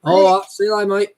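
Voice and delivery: put-on Australian accent. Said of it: "they're like Australians".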